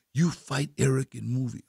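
softly spoken imitation of the Russian director; whispery. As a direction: say it hushed, in a Russian's broken English. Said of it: "He like whisper".

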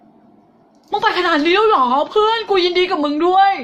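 high, loud, slow, stunned friend's congratulations; amazed friend. Retold or imitated. Teacher voicing an old friend amazed at her student's success, high and loud. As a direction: gasp it out like a friend who can't believe it. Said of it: "คุณจะเปลี่ยนถึงขนาดว่า".

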